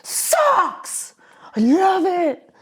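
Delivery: high squealing fake joy; fake delight. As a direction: gush with overdone delight. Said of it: "and you're like".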